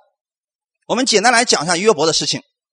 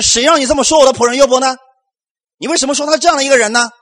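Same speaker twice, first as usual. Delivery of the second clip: louder, higher rebuke, fast at the end; angry rebuke; 5 semitones higher, 4 dB louder, faster than usual. Acted. God rebuking Job's three friends, angry and loud. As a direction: defend your servant with rising anger. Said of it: "神向他的三个朋友发怒了".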